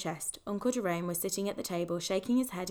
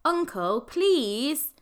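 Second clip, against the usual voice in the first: a stern, no-nonsense sister, louder; higher, louder motherly "Uncle, please"; like her mother; 6 semitones higher, 6 dB louder, much slower than usual. A narrator's reading. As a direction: scold him like his bossy younger sister. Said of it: "sounding as much as she could like her mother".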